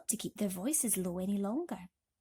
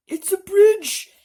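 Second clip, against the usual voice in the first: very loud, much higher, slow exclaim; excited guess; 12 semitones higher, 18 dB louder, slower than usual. A narrator's reading. Travellers shouting excitedly at the strange arch. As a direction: blurt out the discovery.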